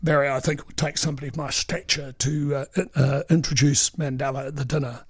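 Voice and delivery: a hint of a pompous politician puffing himself up; pompous self-important boss. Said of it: "he sort of puffed up his chest and said".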